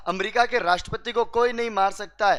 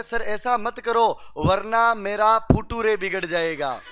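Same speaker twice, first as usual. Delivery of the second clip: slow, laughing plea with फुटूरे said as "phu-too-re"; student begging the principal not to expel him; pleading student; slower than usual. Retold or imitated. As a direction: beg like a kid, mangling future. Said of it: "पैर पकड़ लेता है और वो कहता है".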